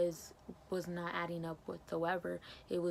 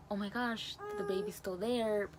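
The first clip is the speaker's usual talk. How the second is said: a bit louder, eager and happy; retold excitement; 3 semitones higher, 4 dB louder than usual. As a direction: relive the moment of finding the baby still there. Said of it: "I'm all excited".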